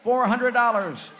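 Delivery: auction bid calling; auctioneer. Acted. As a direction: call the bids like an auctioneer.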